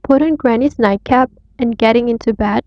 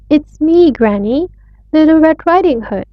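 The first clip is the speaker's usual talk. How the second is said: wolf faking a shrill voice; 5 semitones higher than usual. Acted. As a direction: squeak it out high to pass as the girl. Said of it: "making his voice as shrill as he could".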